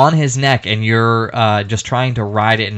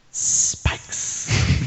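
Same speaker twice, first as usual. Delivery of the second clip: fake reverb; 8 dB quieter than usual. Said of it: "I forgot I don't have any reverb".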